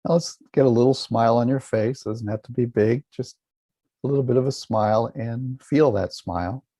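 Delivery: calm, unhurried meditation guidance with long silences; guided meditation. Real, not acted. Teacher guiding listeners to relax and feel a smile, calm meditation voice. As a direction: lead them gently, leaving space after each instruction.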